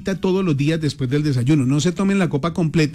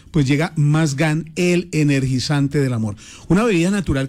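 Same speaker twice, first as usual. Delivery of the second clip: locutor de comercial. Acted. Lectura de cuña publicitaria.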